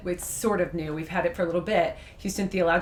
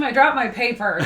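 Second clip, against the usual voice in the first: teasing echo; 4 semitones higher, 6 dB louder than usual. Retold or imitated. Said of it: "is that a euphemism?".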